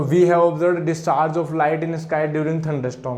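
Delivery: the whole sentence read slowly; slow dictation. Shown as a demonstration. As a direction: read it back slowly for the notes. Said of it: "reading full sentence slowly".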